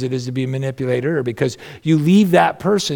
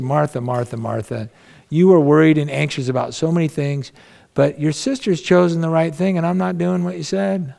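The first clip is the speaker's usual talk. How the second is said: gentle Jesus. Retold or imitated. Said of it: "he was nice to her".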